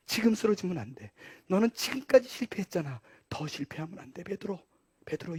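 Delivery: hushed, gentle urging; tender encouragement. Acted. Jesus looking at Peter after the denial, tender encouragement. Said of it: "쳐다보면서".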